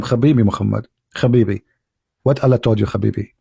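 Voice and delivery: lightly put-on Israeli accent, low; Musa, Israeli accent. Musa greeting Muhammad from heaven, mock Israeli accent. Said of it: "Say it in Israeli accent".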